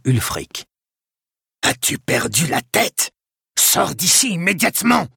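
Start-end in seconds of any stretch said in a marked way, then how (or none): 1.6-5.1 high-pitched indignant scolding; indignant outcry. A narrator's reading. Prior ordering an intruder out of church, indignant outcry. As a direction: cry out in outrage. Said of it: "s'écria le prieur indigné".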